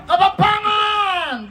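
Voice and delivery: Kapampangan shouted slowly, stretched out; drawn-out shout. Shown as a demonstration. Host announcing the next language, slow loud shout. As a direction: bellow the word Kapampangan long and loud.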